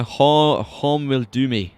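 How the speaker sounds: a playful, lightly put-on Scottish accent. Shown as a demonstration. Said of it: "he would definitely scold me for the Scot".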